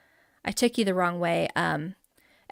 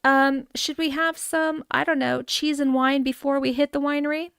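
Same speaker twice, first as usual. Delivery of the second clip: lightly hammed-up snob, slightly lifted pitch; mock-snooty yacht-club invitation; snobby voice; 4 semitones higher than usual. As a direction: play at being a wealthy snob. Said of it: "That's my snobby voice in case you didn't get it".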